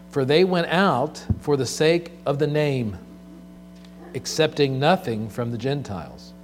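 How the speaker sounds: scripture reading. Acted. Reads Third John aloud.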